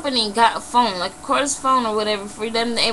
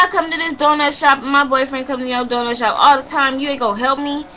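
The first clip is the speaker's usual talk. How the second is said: raised, insistent complaint; indignant protest; 4 semitones higher than usual. Retold or imitated. Regular customer arguing with donut shop lady, indignant protest. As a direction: re-enact an affronted regular pleading the case.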